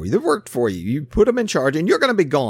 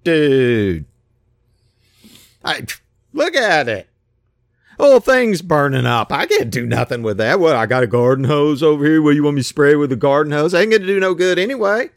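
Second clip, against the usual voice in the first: lightly voiced slacker, louder and quicker; lazy dude servant; 3 dB louder than usual. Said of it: "he's like".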